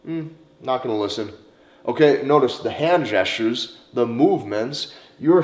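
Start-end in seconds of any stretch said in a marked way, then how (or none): 0.1-1.3 dismissive. Shown as a demonstration. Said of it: "hand gestures that are maybe dismissive".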